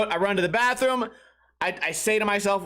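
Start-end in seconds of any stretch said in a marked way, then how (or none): none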